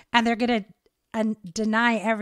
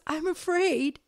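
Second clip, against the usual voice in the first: mock scared; 7 semitones higher, slower than usual. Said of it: "she does this scared noise".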